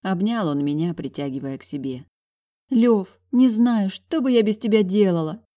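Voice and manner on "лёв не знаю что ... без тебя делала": louder, higher, heartfelt burst of gratitude; fervent. A narrator's reading. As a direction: pour your heart into it. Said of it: "С пылом сказала я ему".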